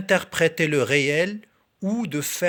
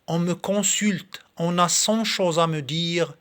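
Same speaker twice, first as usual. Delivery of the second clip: measured verse reading, slightly lifted above normal talk; poem recitation. Acted. Reading Victor Hugo's poem to video viewers, in recitation voice. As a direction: recite it line by line, pausing between phrases.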